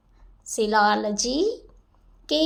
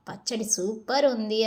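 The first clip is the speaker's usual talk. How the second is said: tearful. Acted. Husband fearing his mother-in-law.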